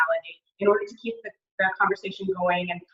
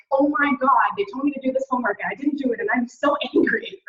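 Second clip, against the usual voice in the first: mock upset student; 5 semitones higher, 3 dB louder than usual. Upset student voiced by presenter.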